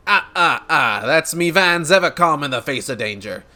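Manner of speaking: hearty noble with a chuckle; uncertain character accent. Acted. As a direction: boast proudly in a put-on accent. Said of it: "what accent I'm going for this guy".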